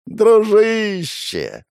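медленно, тянуто и высоко; притворно дружелюбно; мило улыбаясь. Acted. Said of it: "мило улыбнулся я". (приторное «дружище» с улыбкой)

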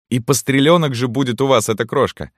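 high, fond woman's voice; delighted canteen woman. A narrator's reading. (восторженная маркитантка, высоким голосом)

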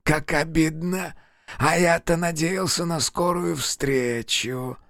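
high, slow, offended pout; wounded and sulky, drawn out; hurt, pouting. Acted. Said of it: "Обиженно поджал тот губы".

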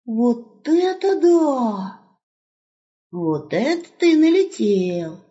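high, slow drawn-out amazement; wolf knocked back in shock; shocked exclamation. Acted.

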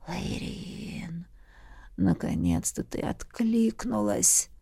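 breathy whisper, slow. A narrator's reading. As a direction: whisper her name in relief. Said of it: "прошептал король".

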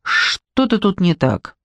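slow, mushy mumble on "Что-то"; mumbling. A narrator's reading. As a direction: stretch "Что-то" as if the mouth won't work. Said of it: "промямлила я".

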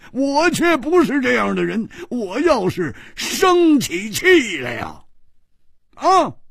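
high, rising, indignant warning; angry threat. Acted. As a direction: threaten him, voice climbing high. Rider threatens to lose his temper.

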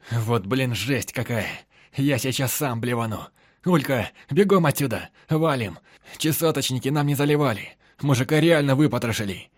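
disgusted shouting. A narrator's reading. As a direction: yell it out in disgust. Guy recoils from gutted corpse.

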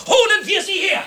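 high, loud rallying cry; loud high rallying shout; loud call. Acted. Decision made, calling lawyers.

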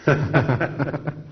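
short laugh; a brief chuckle to oneself. Real, not acted. Chuckle after asking to read.

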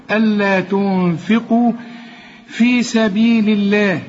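slow, measured tajweed recitation; Quran recitation. Shown as a demonstration. Tajweed teacher models the verse, reciting slowly. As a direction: recite it slowly with held sounds.

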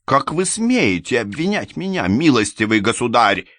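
high, offended outcry; how dare you, sir; indignant lady. A narrator's reading. Анна возмущается. (оскорблённо, высоким голосом)

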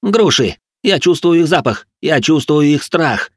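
high, loud, frenzied cry; frenzied, stretching out the last sentence; manic exclamation. A narrator's reading. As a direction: cry it out like a crazed predator. Crazed instructor raging round kitchen.

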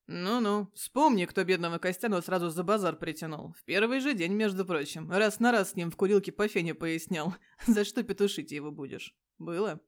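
loud, needling tease; a loud, knowing jab at a friend; teasing reminder. Acted. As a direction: rub his nose in it, loudly. Igor teasingly reminds Petya.

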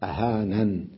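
أهانن ending on a vowelless n; Abu Amr's reading. Shown as a demonstration. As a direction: close أهانن on n, no ee. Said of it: "وأبو عمرو كذلك يقرأها". (قراءة بحذف الياء)

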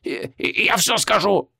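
high, slow panicked wail; terrified demon wail. A narrator's reading. Demon wails his surrender to the mage. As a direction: cry out in sudden fear. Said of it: "завопил демон".

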